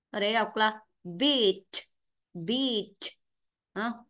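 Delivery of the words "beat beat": "beat" with the final t clearly released; full final sound. Shown as a demonstration. Teacher showing students not to swallow endings, careful final-t demo. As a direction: draw out "beat" and sound its last t. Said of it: "âm đuôi là phải đọc triệt để".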